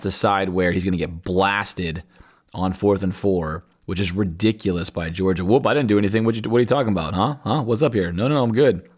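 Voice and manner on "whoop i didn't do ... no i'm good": mock innocence. Mimics Georgia player denying a hit.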